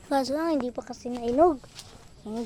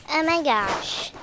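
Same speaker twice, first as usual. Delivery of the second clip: loud, slow drawn-out oh my gosh; amazed exclaim; 2 semitones higher, 6 dB louder, slower than usual. Real, not acted. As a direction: marvel out loud at the harvest. Amazed at many vegetables. (malakas at mabagal na pagkamangha)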